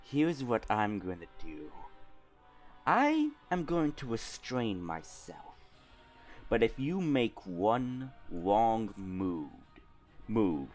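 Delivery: quiet villain warning; evil monologue. Acted. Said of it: "your evil monologue".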